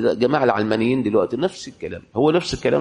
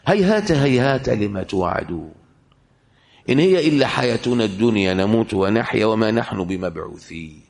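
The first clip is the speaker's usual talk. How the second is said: Quran recitation. Acted. Recites Quran verses slowly.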